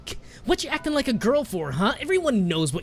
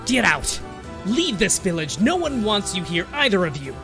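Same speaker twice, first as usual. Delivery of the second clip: loud, raised-voice banishment; furious yelling; 7 semitones higher, 7 dB louder than usual. A narrator's reading. Bully yelling at girl and grandmother, loud fury. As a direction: drive them out.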